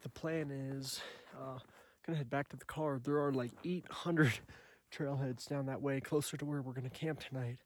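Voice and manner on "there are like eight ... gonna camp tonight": breathless from the altitude; short of breath, winded. Real, not acted. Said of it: "Excuse me, I'm out of breath".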